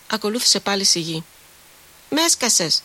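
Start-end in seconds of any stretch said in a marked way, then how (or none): 2.1-2.8 child's comic squeal, pitched up, lightly voiced; a small boy squealing in mock outrage; a hint of a cross little boy squealing; comic indignant squeal. A narrator's reading. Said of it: "τσίριξε κωμικά και αγανακτισμένος ο πιτσιρίκος".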